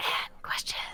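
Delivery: very soft, barely audible whisper. Adding the second half of a segment title on cue: whispering. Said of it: "You don't have to whisper it".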